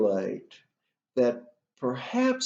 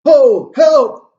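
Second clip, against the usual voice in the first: very loud, high-pitched cries for help; Polonius; 13 semitones higher, 15 dB louder, slower than usual. Acted. Behind the curtain hearing Gertrude, crying out. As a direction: shout each word out high and separately. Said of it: "And Polonius cries out".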